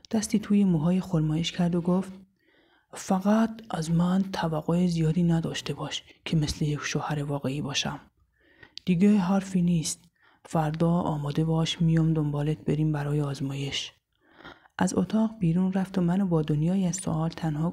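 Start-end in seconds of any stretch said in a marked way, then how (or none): 2.9-13.9 lightly lowered man's voice, distant and final; a hint of a detached groom ending the talk; cold husband. Husband sets cold terms.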